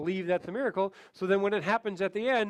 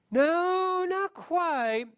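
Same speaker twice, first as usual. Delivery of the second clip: much higher, mildly correcting client voice; client Mary; 11 semitones higher, much slower than usual. Acted. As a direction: play the client gently correcting you. Client Mary voiced in role-play.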